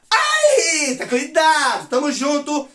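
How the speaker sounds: high, loud comic shout; mock alarmed warning. Joking warning shouted to a viewer's Rita. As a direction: yell a hammed-up warning to Rita.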